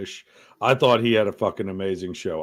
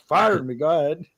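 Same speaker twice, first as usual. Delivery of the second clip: higher, put-on cheeky host voice; mock host dare; 6 semitones higher than usual. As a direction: toss it off like a host daring his bosses. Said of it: "Every time he's like".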